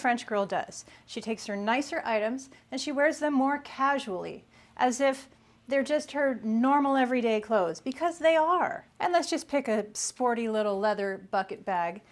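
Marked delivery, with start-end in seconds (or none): none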